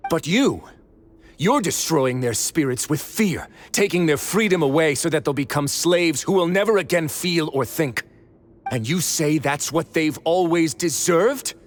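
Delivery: rising, heated accusation; angry reproach. Acted. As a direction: throw it at him, growing angrier. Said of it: "he's really mad".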